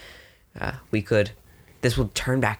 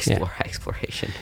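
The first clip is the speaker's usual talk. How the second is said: laughing whisper; 2 semitones lower, 3 dB quieter than usual. Real, not acted.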